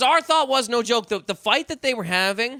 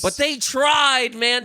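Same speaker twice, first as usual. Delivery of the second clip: emphatic shout; 5 semitones higher, much slower than usual. Real, not acted. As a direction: stretch it out and shout.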